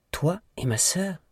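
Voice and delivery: high, slow, disbelieving; incredulous question. A narrator's reading. Wife confronts her husband over her sister, high incredulous question. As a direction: draw it out in shocked disbelief.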